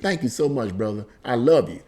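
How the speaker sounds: tender, quietly grateful; soft heartfelt thanks. Retold or imitated. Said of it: "she said".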